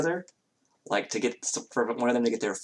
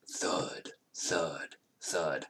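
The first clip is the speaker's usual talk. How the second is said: heavy thuds; 6 semitones lower, 10 dB quieter, much slower than usual. Shown as a demonstration. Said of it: "sneaky for a Goliath is still, like".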